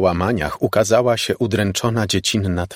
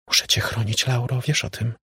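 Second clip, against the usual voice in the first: a hint of a soft, higher ghost girl; lightly voiced dead sister, hushed; ghostly girl's voice; 4 semitones higher, 4 dB quieter than usual. Dead sister speaks to Laura from the radio, lightly hushed. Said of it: "wyraźny dziewczęcy głos".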